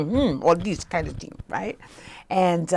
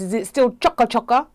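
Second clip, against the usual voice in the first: lightly imitated West Indian mother, pitched up; 6 semitones higher than usual. Mother on the phone asking about her hair, light West Indian accent. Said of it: "my mother's West Indian".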